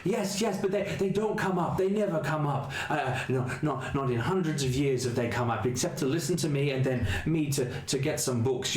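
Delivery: high, gentle ghoulish voice; apologetic ghoul reaching out a hand; Otto the ghoul. Acted. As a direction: speak as a timid, kindly monster.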